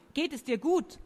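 a touch of breathless concern. A narrator's reading. Sophie checks on Rolanda while hanging, breathless. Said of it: "rief Sophie atemlos".

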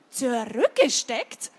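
stunned, stretched-out question; incredulous echo. Acted. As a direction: echo it as if it can't be true. Harold echoes Otto in disbelief.

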